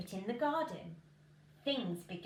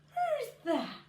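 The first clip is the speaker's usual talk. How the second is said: sleepy who's that; 12 semitones higher, 6 dB louder than usual. Acted. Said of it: "Jack yawned".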